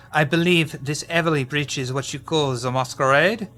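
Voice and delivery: shaky attempt at a French accent. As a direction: read the letter with an amateur French accent. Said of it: "without the French accent".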